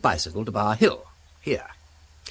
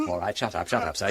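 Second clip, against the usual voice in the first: laughing; 5 semitones lower, 5 dB quieter, faster than usual. Real, not acted. Laughing at groaning corpse.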